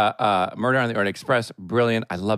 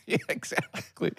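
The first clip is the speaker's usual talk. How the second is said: breathy laughing yes; 7 semitones higher, 7 dB quieter, slower than usual. Real, not acted. Laughing agreement.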